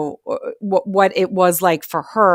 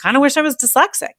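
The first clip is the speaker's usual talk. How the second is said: wistful son; 8 semitones higher, 4 dB louder, faster than usual. Retold or imitated. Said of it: "my middle son one day saying to me".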